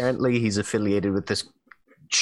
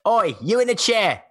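shouted call; 13 semitones higher, 4 dB louder than usual. Acted. Calling out to the skeleton.

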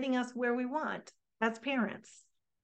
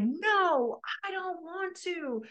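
put-on refusing little girl; 7 semitones higher, slower than usual. Daughter refusing mom's chore request, mock whiny. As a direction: lightly play a pouting little girl. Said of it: "the little girl is on the other side".

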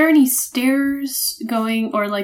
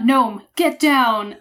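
assertive adult voice; 2 semitones higher, slower than usual. Acted. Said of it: "I use my very assertive kind of, kind of scary voice".

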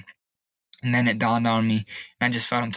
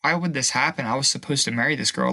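reliving the anger at God, half-voiced; angry plea to God; 3 semitones higher than usual. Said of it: "angry with God".

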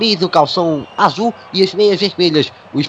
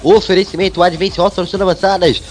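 radio announcer; 3 semitones higher than usual. Acted. Radio opening and sponsor read. (locutor de rádio)

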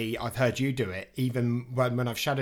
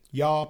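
"Yeah" pitched up as a question; 3 semitones higher than usual. Shown as a demonstration. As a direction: ask "Yeah" with a brief rise. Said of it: "in a question form".

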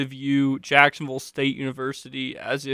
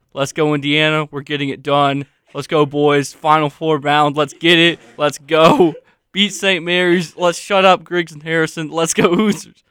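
frat bro hype; 5 dB louder than usual. Pretend. Hyping up his team, cheering.

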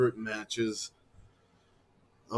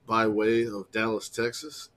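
boxing ring announcer. Acted. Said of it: "Now you sound like a real ring announcer".

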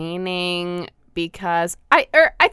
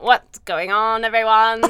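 mimicked greeting; 3 semitones higher, 6 dB louder than usual. Shown as a demonstration. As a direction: stretch the greeting out in imitation. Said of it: "That's how you talk".

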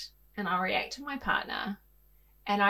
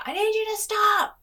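higher, louder yell; retold scream; 12 semitones higher, 6 dB louder than usual. Yelling at partner while driving, higher and louder. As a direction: shout it again to stop him. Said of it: "I feel like I just scream".

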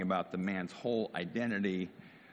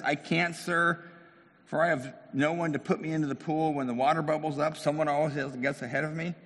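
formal King James plea; 3 semitones higher than usual. Retold or imitated. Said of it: "the man says".

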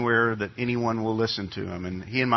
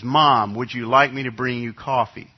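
loud call. Retold or imitated. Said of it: "Loud voice".

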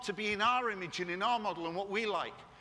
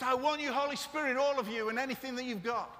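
earnest plea; 5 semitones higher than usual. Retold or imitated. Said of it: "It's just".

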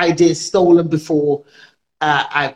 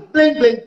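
high mimicked bell chimes; ringing alarm bells; 9 semitones higher, 3 dB louder than usual. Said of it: "The bells are just going off".

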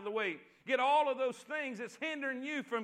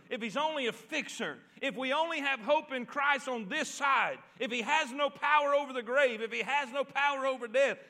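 insistent pulpit delivery, getting louder; emphatic preaching; 3 semitones higher, 6 dB louder than usual. Real, not acted. Preacher warning the congregation about hope only in this life, emphatic preaching.

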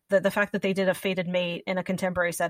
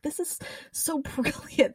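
giggling as she quotes her own text; laughing delight; 7 semitones higher, slower than usual. Retold or imitated. Quoting her excited text to friends, laughing. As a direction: laugh through the word brilliant.

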